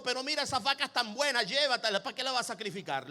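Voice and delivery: quick, sinking persuasion; hurried, offhand tempter's reasoning; tempting second voice. Acted. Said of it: "La segunda voz le dijo".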